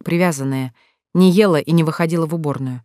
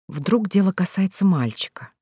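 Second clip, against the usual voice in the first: purring; 3 semitones higher than usual. Acted. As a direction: purr it teasingly to the girl. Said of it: "промурлыкала Лали". (мурлыкающе, вкрадчиво)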